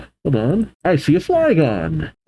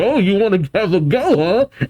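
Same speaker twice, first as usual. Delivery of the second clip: higher, quick cocky taunt; cocky challenge; 6 semitones higher than usual. Acted. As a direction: act out a challenge to fight. Hoopa squares up to attackers.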